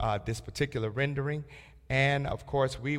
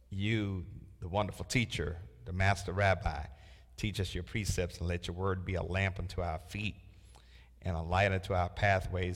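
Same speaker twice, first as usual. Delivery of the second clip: opening prayer; 2 semitones lower than usual. Real, not acted. Preacher praying to God before the Bible study, prayerful. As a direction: lead a study group in prayer, settling into a hushed address.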